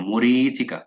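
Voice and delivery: মরিচিকা sounded letter by letter; spelling-pronunciation. Shown as a demonstration. Teacher drills the spelling of মরিচিকা. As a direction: say মরিচিকা as it is written. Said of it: "বানানটা খেয়াল রাখার জন্য".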